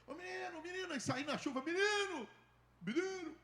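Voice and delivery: high calling voice, rising to loud. Retold or imitated. Pastor calling the boy at the traffic light, high call. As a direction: call the boy from across the road.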